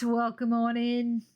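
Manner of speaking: slow, drawn-out Australian welcome; jokey Aussie greeting to a new viewer; mock Australian accent. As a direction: lay on a hammed-up Aussie accent. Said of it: "I'm Australian".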